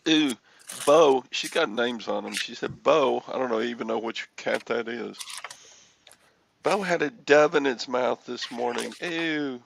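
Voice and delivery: mock wife voice, loud and fussy; lightly voiced fussy wife; imitating wife. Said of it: "she was all".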